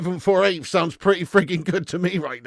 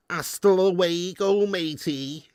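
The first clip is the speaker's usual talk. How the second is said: Cuban Scouser; 3 semitones higher, slower than usual. Retold or imitated. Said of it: "somebody who's like".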